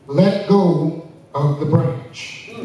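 slow, calm and deliberate; calm instruction. Acted. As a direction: say it gently and steadily.

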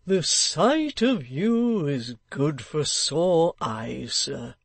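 slow, hearty locksmith greeting; a gruff old tradesman, pleased; lightly voiced locksmith, glad to see him.

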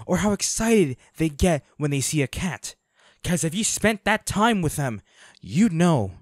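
loud, bitter fury at the killer; angry confrontation. Acted. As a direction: throw it in his face, hard and loud. Confronting a hunter who hurt partner.

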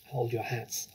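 soft, hushed warning; whispered warning. Acted. Older girl warning friends as Trunchbull approaches, hushed. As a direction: murmur it under your breath. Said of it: "Hortensia whispered".

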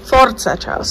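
mock Italian fan accent, stretching Ferrari. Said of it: "I have to do the Italian accent".

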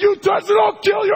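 high, loud shouted threat; furious shout. Retold or imitated. Catatonic patient suddenly shouting at the therapist. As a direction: bellow it to stop him.

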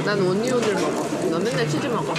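talking with food in mouth; words between bites of fries; chewing fries while talking. Real, not acted. Seen 0: Puts fry in mouth at -1.0, lips chewing while picking more.

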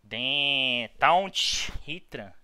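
loud, drawn-out yell of frustration; real gamer rage shout; frustrated shout. Real, not acted. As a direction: blow up at the bad turn. Losing a Pokemon battle.

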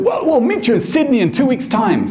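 brisk, high producer voice. Retold or imitated. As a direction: settle it like a busy TV man. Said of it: "He said".

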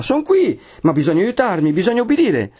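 high-pitched urgent orders; leader calling out. Acted. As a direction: take charge over a crowd. Leader calls out amid crowd. (comandi acuti e concitati)

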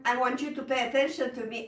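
fast and pressing, pushing through to "attention"; rushed speech. Shown as a demonstration. Teacher showing a rushed, urgent plea. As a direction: hurry the words as if anxious. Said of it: "emphasize a word or to pay attention".

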